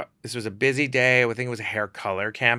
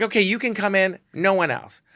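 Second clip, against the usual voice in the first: upset model; 9 semitones higher, 4 dB louder than usual. Retold or imitated. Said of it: "She's like".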